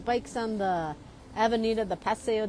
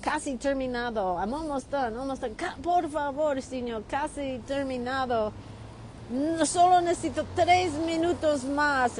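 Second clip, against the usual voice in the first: pleading; 3 semitones higher than usual. Retold or imitated. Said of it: "And I said".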